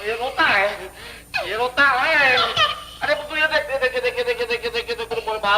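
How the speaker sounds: put-on man pleading with a crying baby, half-crying; mock whimpering plea. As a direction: whimper along with the baby to hush it.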